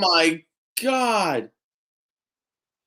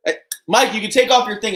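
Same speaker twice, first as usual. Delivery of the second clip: ordinary talk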